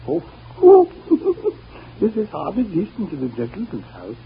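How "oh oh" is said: shocked oh. Acted. Shocked at what he sees.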